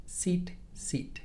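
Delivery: both "seat" takes with identical ee vowel; same pronunciation. Shown as a demonstration. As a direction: say "seat" twice exactly alike, as if for seat and sit. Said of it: "end up sounding like the same word".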